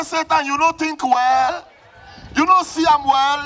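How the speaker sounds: defiant rebuke. Acted. Rebuking Satan on waking.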